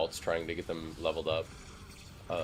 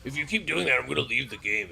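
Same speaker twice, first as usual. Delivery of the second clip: higher, louder whiny threat; whiny gamer; 6 semitones higher, 6 dB louder than usual. Retold or imitated. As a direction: mimic an upset player. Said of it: "It's like".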